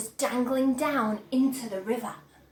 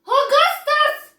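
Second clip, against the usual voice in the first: very high, loud, slow wail; crying out; 12 semitones higher, 8 dB louder, slower than usual. Acted. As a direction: wail the boy's name. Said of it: "cried Missus Gloop".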